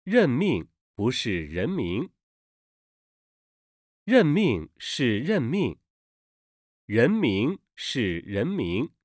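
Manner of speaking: tongue twister with exact, distinct tones; careful tone drill. Shown as a demonstration. Model reader drilling learners on a tongue twister, careful tones. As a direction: articulate each tone and r sound clearly. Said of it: "注意声调和日的发音".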